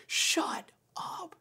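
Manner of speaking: whispered, dumbstruck mock exclamation; stunned disbelief. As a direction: imitate a man too amazed to voice it. Homeless man's retold stunned disbelief.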